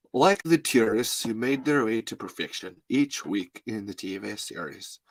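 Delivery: put-on lightly accented author reading his book; measured impression of an author reading; Jonathan Melville. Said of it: "I'm gonna do Jonathan Melville here".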